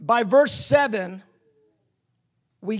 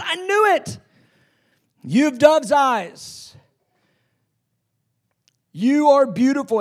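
delighted Jesus; 4 semitones higher, 3 dB louder than usual. Acted. Jesus voicing delight, louder.

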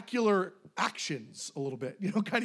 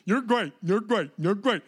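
emphatic praise; 5 dB louder than usual. Retold or imitated. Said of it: "I said it four times".

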